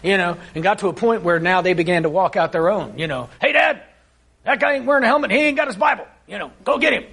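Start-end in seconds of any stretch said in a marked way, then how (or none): 3.4-7.0 imitating an eager young kid, pitched up high; excited kid. Mom voicing her son tattling to dad, eager and high. Child's words voiced in story.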